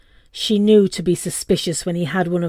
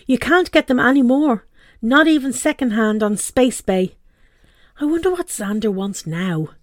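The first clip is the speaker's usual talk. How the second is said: put-on a touch louder, fond of her old gadget; fussy mum; 3 semitones higher, 3 dB louder than usual. Mum clinging to her old gadget, lightly voiced. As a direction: mum defending her old hologram Skype. Star voiced in read story.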